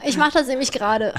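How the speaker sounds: laughing through the words. Real, not acted. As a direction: giggle while admitting it. Trying it while speaking.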